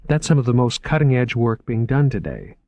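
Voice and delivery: bright, earnest museum curator voice; eager young curator. Acted. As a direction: pitch it up, keen and selling. Curator voice again.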